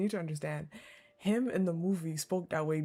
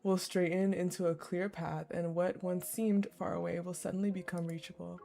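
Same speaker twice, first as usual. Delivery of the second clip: measured visual-novel read-aloud; composed narrator reading a romance; story narration; 2 semitones lower, 3 dB quieter than usual. A narrator's reading. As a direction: read the story evenly and unhurriedly.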